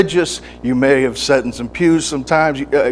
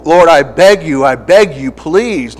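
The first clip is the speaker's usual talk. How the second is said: emotional begging; 4 semitones higher, 6 dB louder than usual. Retold or imitated. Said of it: "I go".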